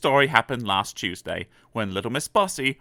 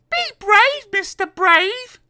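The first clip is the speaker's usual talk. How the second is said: encouraging Miss Somersault; 7 dB louder, slower than usual. Acted.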